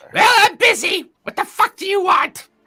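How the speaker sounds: shrill, very high, loud put-on goblin voice. Voicing the wizard character a player approaches, in a high-pitched goblin-like voice. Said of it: "everybody high pitched sounds like a goblin".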